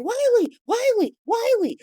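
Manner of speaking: very high mock cry for her son; calling out. Willow calling Wiley at the stairs, calling out. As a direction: call upstairs in a high, pleading voice.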